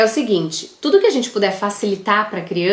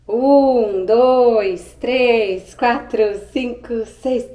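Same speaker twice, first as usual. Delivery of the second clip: playful counting game; 3 semitones higher, much slower than usual. Real, not acted.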